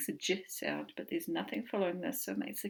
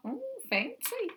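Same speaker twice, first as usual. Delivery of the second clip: put-on much higher, airy old-lady oh fancy; grandmother's oh fancy. Imitating his grandmother's old saying, high and genteel. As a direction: mimic a grandmother being impressed. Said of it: "That's what my grandmother used to say".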